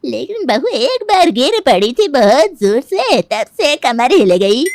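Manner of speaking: lightly voiced elderly neighbour, loud and emphatic; scolding old auntie. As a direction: play a chatty old auntie, projecting firmly. (बुज़ुर्ग चाची की ऊँची, ज़ोरदार आवाज़)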